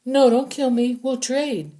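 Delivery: high, loud frantic begging; a bound prisoner begging the soldiers not to kill him; desperate plea. Acted. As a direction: plead for your life. Captive begging for life.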